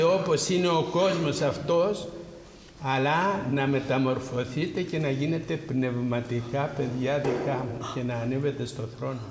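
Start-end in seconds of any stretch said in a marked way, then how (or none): none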